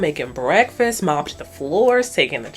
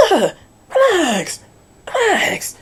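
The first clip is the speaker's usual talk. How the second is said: mock dismissive; 11 semitones higher, slower than usual. Mocking reply to the gang.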